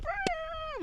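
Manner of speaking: very high, thin, soft squeal; mock scream. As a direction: imitate panic in a small high-pitched scream. Imitates reaction as car spins.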